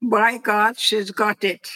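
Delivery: put-on a light touch of a British accent on the mother's phrase; lightly imitated British accent, mostly in the speaker's own voice. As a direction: quote mother in a hint of British English. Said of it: "my mother would say it with a British accent".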